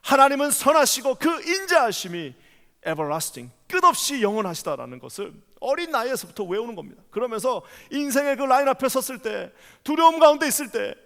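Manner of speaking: impassioned sermon, rising to ringing peaks; preaching. Acted. Pastor preaching fervently to the congregation. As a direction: preach it with full fervour to the church.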